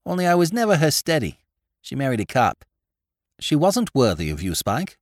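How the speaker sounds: meditative Spike. Acted. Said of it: "said Spike meditatively".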